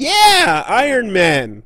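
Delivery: mock thrilled kid's high cheer, drawn-out yeah. Retelling how a child in the audience reacted, imitating an excited yell. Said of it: "a child in the audience excitedly yelled".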